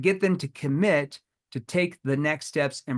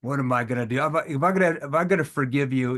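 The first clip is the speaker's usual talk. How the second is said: playful tone; 2 semitones lower than usual. Shown as a demonstration. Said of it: "if you do that with a playful tone".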